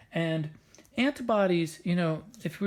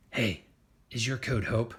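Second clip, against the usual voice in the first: low patrolling-guard voice; killer T cell; 3 semitones lower than usual. Acted. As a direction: question a passer-by in a low voice. Killer T cell questions passing cells.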